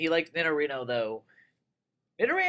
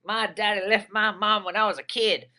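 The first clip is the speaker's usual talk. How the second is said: lightly put-on Southern redneck twang, a little higher; half-hearted Southern redneck accent; 5 semitones higher, 4 dB louder than usual. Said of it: "that was my redneck voice".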